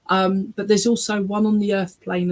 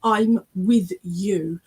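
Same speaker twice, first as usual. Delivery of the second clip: "I'm with you" slow and drawn out; passionate emphasis; much slower than usual. Retold or imitated. Medium relaying a spirit's reassurance, "I'm with you" slow and emphatic. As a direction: give each word of "I'm with you" slow, deliberate weight. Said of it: "he's very passionate about that".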